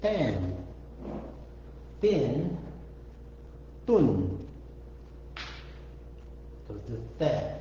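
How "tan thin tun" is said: "tan, thin, tun" one by one with long gaps; syllable demonstration. Shown as a demonstration. Teacher shows what the letter becomes, syllables set apart. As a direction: sound out each of "tan, thin, tun" separately. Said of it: "So that becomes".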